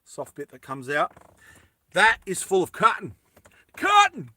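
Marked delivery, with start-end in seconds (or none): 3.8-4.3 American accent. Shown as a demonstration. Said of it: "cotton just sounds American".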